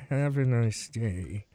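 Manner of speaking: low, slow, strained-nice farewell; retold goodbye in your nicest voice, low and slow; forced niceness. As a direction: draw it out as nicely as you can manage. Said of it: "in the nicest voice that I could".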